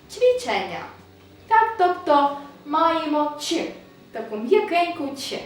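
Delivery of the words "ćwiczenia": "ćwiczenia" with a soft "ч" sound at the start; Polish soft cz. Shown as a demonstration. Teacher modelling "ćwiczenia" with a soft "ч". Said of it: "не стає просто Ц, а Ч".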